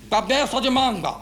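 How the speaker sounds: exasperated, drawn-out "Cabeça de manga"; said properly. Retold or imitated. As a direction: enunciate "Cabeça de manga" loudly and slowly. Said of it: "Não, fala direito".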